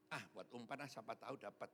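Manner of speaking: low, soft musing to oneself; quiet self-talk. Retold or imitated. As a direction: think aloud under your breath. Muttered thought while baiting the hook.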